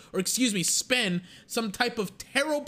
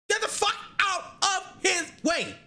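laughing shout; 9 semitones higher than usual. Pretend. Calling out to the owner, laughing.

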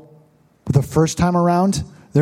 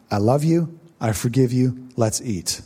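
tender welcome; 5 semitones lower, 4 dB quieter than usual. Retold or imitated. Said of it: "that's a representation of communion".

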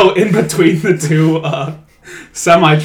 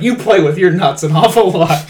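mock accusation; 4 semitones higher, 4 dB louder than usual. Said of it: "it's like".

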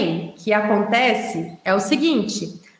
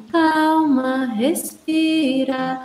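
soothing; much slower than usual. Retold or imitated.

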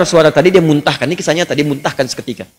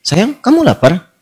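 innocent asking; slower than usual. Retold or imitated. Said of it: "polos kayak nanya".

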